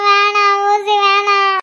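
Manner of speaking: whining, tearful refusal; child on the verge of crying. Acted. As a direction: plead tearfully against the needle. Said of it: "அழக்கூடாது".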